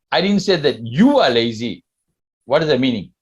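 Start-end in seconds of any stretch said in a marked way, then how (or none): 0.1-1.8 you pressed hard, as if someone else is lazy; stress on you. Shown as a demonstration. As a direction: put the weight on you. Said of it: "Or I can even say like this".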